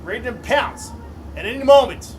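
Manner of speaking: excited race call. Real, not acted. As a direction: call the finish with full hype. Final lap race call.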